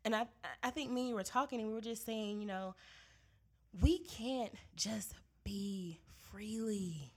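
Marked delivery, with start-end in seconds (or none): 3.8-7.1 slow, breathy whisper of resignation. Real, not acted. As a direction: let it slip out as a tired whisper. Weary aside about being Black.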